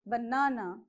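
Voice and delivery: baNAna with the middle syllable stressed; stress on second syllable. Shown as a demonstration. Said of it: "The correct way of pronunciation".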